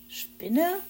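high, loud alarmed question; disgusted at the mere word; shrill spider?. Acted. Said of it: "verkündete Zwitschi angewidert".

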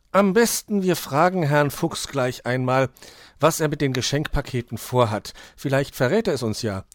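put-on high, loud young detective voice; Hoppel suggesting. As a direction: propose a plan to the friends, starting high.

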